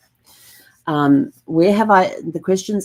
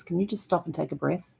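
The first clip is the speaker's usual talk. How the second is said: softer, calm ask to pause; calm gentle request; 8 dB quieter than usual. Retold or imitated. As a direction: soothe a frustrated client gently. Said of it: "very calmly, very gently".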